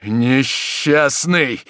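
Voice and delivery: terrible anger; furious cry. Acted. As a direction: hurl the word in rage. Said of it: "закричал маршал, страшный в своём гневе".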